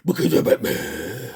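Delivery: low, slow growling Batman impression. Toy reviewer showing how the Batman figure talks, low growl. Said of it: "And he talks like this".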